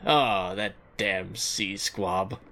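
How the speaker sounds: slow, low, lightly growled pirate; a hint of an old pirate. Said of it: "It sounds like a pirate insult".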